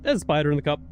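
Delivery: alarmed about the spider; screaming at a spider. Real, not acted. Spider in the cup.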